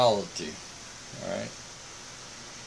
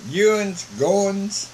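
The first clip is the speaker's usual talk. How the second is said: higher, imitated Southern Missouri accent; 4 semitones higher, slower than usual. Missionary quoting local colloquialisms, Southern Missouri accent. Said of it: "Southern Missouri accent".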